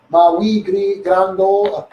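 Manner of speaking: playful put-on Scottish accent; mock Scottish voice, having a go. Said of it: "am quite good at accents".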